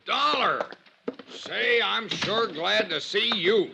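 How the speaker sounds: high, eager hello of relief; relieved greeting. Acted. Arrested salesman greeting Dollar with eager relief. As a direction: greet a rescuer with delight. Arrested man sees his friend.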